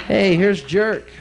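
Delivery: loud, slow drawn taunt; mock dad taunt. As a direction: drag it out.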